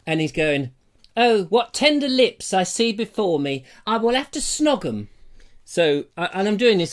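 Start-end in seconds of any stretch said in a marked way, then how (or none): 1.2-5.1 lightly hammed theatrical lover; mock Old English Romeo. Romeo admiring Juliet's lips, lightly hammed thespian. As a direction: declaim it like a ham Shakespearean. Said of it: "I'm doing this in all Old English".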